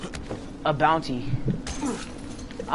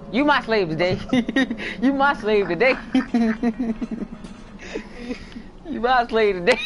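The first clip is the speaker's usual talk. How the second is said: giggly taunt. Real, not acted. Player taunting his friend as slave today, giggling. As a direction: taunt broken up by laughter.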